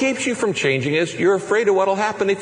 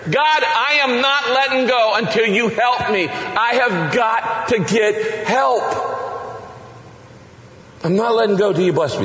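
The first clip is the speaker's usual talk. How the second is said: passionate prayer; 6 semitones higher than usual. Pretend. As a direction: shout your need to God. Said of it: "what God loves is passionate prayer".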